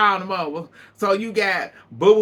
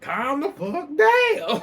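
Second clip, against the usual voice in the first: mock yell; 8 semitones higher, slower than usual. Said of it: "Courtney White".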